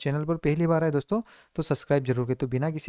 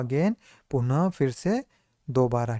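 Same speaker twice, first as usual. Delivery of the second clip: slow recap; slower than usual. Shown as a demonstration. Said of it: "क्या पढ़ेंगे इसको?".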